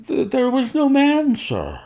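a scared servant tripping over his lie; frightened high-pitched stammer; stammering fearful denial. A narrator's reading. Servant lying under questioning.

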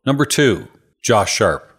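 punchy game show announcement; announcer voice. Pretend. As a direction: announce the name like a host. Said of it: "I just wanted to say number two".

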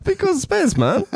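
put-on "space accent"; Drew. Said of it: "It's my version of Drew".

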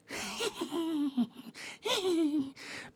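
high shrill cackling laugh; witch cackle. Shown as a demonstration. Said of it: "that makes you sound like a witch".

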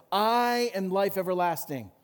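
"I" stretched and stressed; emphatic declaration. Retold or imitated. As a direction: proclaim it, leaning long on "I". Last of the "I am" sayings.

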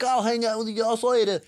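put-on high-pitched, clearly-not-French accent; botched French accent. Host quoting French dirt bike racer, botched French accent. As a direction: do a French guy with an accent that lands nowhere near France. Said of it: "I don't know why he has that accent".

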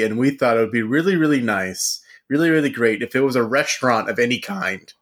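talking with ice in the mouth; speaking around an ice cube. Real, not acted. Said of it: "I've got a piece of ice in my mouth now".

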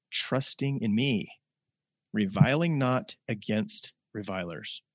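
measured, formal scripture reading. Acted. Preacher reading the verses to the congregation, solemn and measured.

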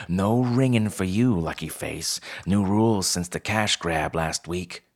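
lightly voiced bossy fox manager; a hint of a no-nonsense little boss; Pell. Fox co-manager barring newcomer from the register, mildly bossy.

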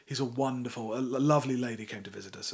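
mock-genteel raconteur, lightly put on; posh boy voice. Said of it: "do my posh boy voice".

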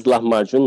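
lahmacun as said in Turkish; Turkish pronunciation. Shown as a demonstration. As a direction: show how Turks say lahmacun. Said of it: "we pronounce it as".

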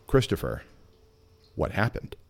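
knowing gentle ask. Retold or imitated. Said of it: "twinkle in his eye and a bit of a sideways slight smile".

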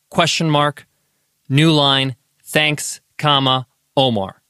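clear, deliberate dictation voice; dictating. Shown as a demonstration. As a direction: speak each word clearly into the phone mic. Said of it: "Something like this".

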